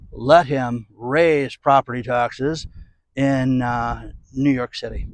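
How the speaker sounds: a hint of a deep voice, slow at first; mock deep man voice. Quoting the New York governor on property taxes, lightly mock deep. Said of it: "Now she's got that deep man voice".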